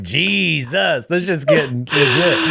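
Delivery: high, mock impressed exclamation; mock amazement. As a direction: pretend to be floored. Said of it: "And you're like".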